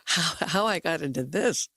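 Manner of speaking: a hint of Brooklyn accent; lightly put-on Brooklyn accent. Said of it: "I'm trying to do a Brooklyn accent".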